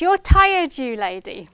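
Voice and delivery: a hint of a playful mother; imitating mum. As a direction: echo the mum's teasing line. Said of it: "So she says at the end".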